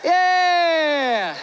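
loud, high, drawn-out whoop; excited cheer. Real, not acted. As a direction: shout a long triumphant yeah. Cheers his ping pong throw.

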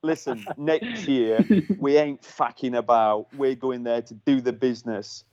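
lightly imitated Cockney team manager; a hint of a Cockney boss; Cockney accent. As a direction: give a team pep talk in mild mock Cockney. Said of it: "he's a proper, like, Cockney accent".

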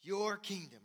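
"your" drawn out and weighted; stress on your. Shown as a demonstration. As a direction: lean on "your", then let the phrase fall. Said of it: "the emphasis is not on us".

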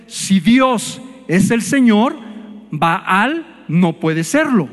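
slow, each word weighed, repeated for emphasis; slow emphatic repeat. Shown as a demonstration. Preacher repeating the point to the congregation, slow and deliberate. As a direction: spell it out again slowly so it sinks in. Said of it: "Otra vez".

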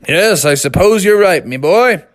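lightly voiced hearty father; agreeable dad. Dad gives in to Froggy, lightly acted hearty voice. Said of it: "Froggy's dad said".

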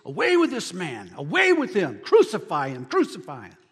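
retold crowd cry, short emphatic bursts; mock mob scream. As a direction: punch out each demand like a mob, half-voiced. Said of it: "screaming to the top of their voice".

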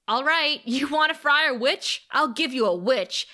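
mildly hammed-up threat; Amy, defiant witch. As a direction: throw down a witch's challenge. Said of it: "and Amy says".

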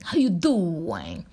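second slow New York accent take; a slow New York greeting, tried again. Shown as a demonstration. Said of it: "I'm trying to get the New York accent".

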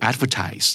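"advertise" ending in a long "tise" like "ties"; American-style "advertise", full final syllable; US verb form. Shown as a demonstration. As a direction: say "advertise" as AD-ver-tise, slowly. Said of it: "Verb คือ".

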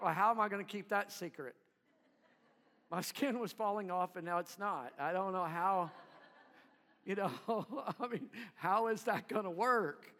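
a touch of a baffled, laughing leper; healed leper. Retold or imitated. Healed leper laughing at Jesus's request, lightly voiced and bemused. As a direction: play the cured man, amused and puzzled. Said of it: "And you're like".

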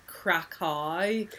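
Krakow read as spelt, without the Polish oo; spelling pronunciation. Shown as a demonstration. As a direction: say Krakow as English spelling suggests. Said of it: "Because it's spelled K R A K O W".

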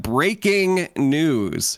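slow, drawn-out announcement of a big moment; mildly dramatic newsreader delivery; intense news announcement. Acted. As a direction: stretch it out like a news bulletin. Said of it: "like, intense, right? This is, uh, the big moment".

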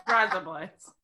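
slow Australian-sounding "Rise Up Lights"; fake Australian accent trick. Shown as a demonstration. American showing off her party trick, fake Australian accent. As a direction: stretch the words into Australian "razor blades". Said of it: "sound like you're saying razor blades with an Australian accent".

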